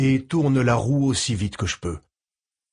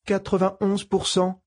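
computer voice; 8 semitones higher than usual. Acted. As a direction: read it like a calm medical computer. Ship computer answers.

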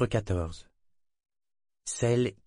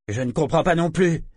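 confused outcry; 8 semitones higher, 6 dB louder than usual. A narrator's reading. Confused Sessurea cries out.

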